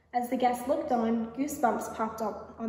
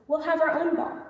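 mouse friends; 4 semitones higher than usual. A narrator's reading. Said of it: "said her mouse friends".

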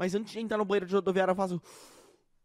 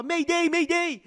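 slow, drawn-out Mayday call; war movie radio call; 9 semitones higher, 4 dB louder, much slower than usual. Retold or imitated. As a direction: call it like a soldier in a war film. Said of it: "eu ouvia nos filmes de guerra o povo falar".

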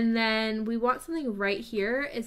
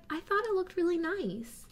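sweet commenter voice; 8 semitones higher, 3 dB quieter than usual. Retold or imitated. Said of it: "super nice person who's like".

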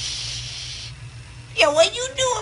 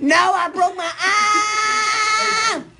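yelling; 5 semitones higher than usual. Real, not acted. Patient refusing baseball over a broken arm, yelling. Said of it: "No more yelling".

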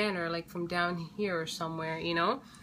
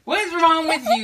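playful scolding; 9 semitones higher, 11 dB louder than usual. Real, not acted.

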